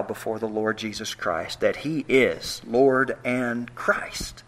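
hushed whisper, slow, voice dropped low; whispered awe; reverent whisper. Real, not acted. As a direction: breathe it out like a holy secret. Whispered climax of confession.

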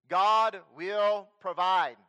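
loud, very slow proclamation; slow proclaiming. Acted. Preacher declaring God's promise to the church, loud slow proclamation. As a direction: drag out each word like a pronouncement.

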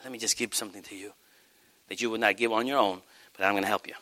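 soft, low, intimate offer; God nuzzling close. Acted. God offering a believer help to give, soft and intimate. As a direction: murmur it low, like a private promise. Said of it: "if God nuzzles over to you and says".

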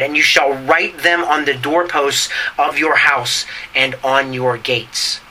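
measured pulpit reading of scripture. Acted. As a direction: read it out like holy text, unhurried. Reads scripture aloud.

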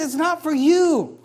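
a slow, firm motherly no; mother's warning. Retold or imitated. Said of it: "She says".

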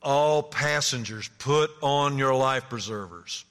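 slow, official loudspeaker announcement; calm captain's warning; ship captain. Retold or imitated. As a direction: announce it like the captain over the speakers. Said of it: "you tell it in his voice".

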